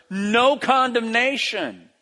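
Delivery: slow, emphatic NO CONDEMNATION with NO stretched high; emphatic declaration. Acted. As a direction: declare NO CONDEMNATION slowly and firmly. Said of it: "starts with two words".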